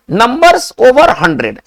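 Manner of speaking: very slow, deliberate heading read. Shown as a demonstration. Teacher slowly announces the next rule to students. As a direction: dictate the heading word by word.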